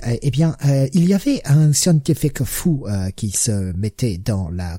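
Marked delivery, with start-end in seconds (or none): none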